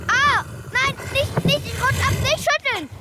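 high, panicked straining cry; cling on, slipping in panic; hanging on. Acted. Slipping off the beast's back.

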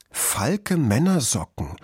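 slow, careful beginner's reading; deliberate sounding-out of printed words. A narrator's reading. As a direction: read word by word off a poster. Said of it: "las Kluge Pfote".

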